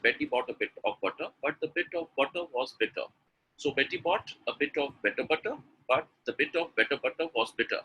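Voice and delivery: moderate pace, words joined up; a little fast. Shown as a demonstration. Teacher showing the next practice step, a little fast. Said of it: "Then read it little fast".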